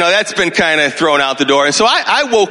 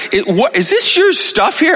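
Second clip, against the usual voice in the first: higher, sharp confrontation; higher retold demand at the door; angry demand; 11 semitones higher than usual. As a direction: challenge the intruders in his house. Confronting strangers in his house.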